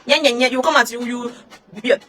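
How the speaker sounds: usual speaking voice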